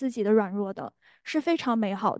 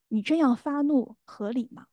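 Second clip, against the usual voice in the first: leisurely gentle; 2 semitones higher than usual. Retold or imitated. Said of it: "圣灵这么悠悠地讲了一句".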